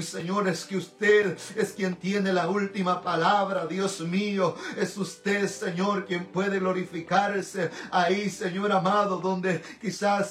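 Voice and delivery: earnest, pleading intercessory prayer; fervent prayer. Real, not acted. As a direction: pray in rolling phrases, calling on God throughout. (oración ferviente de intercesión)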